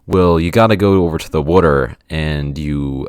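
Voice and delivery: loud, lightly put-on East Coast accent. Shown as a demonstration. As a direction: attempt a New Jersey-area East Coast accent. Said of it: "a East Coast accent that way".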